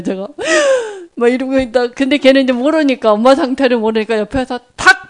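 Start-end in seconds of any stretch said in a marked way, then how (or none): 0.3-1.1 high sharp gasp of shock; frightened gasp. Retold or imitated. Preacher acting out her fright, gasping. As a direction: suck in air in terror. Startled again.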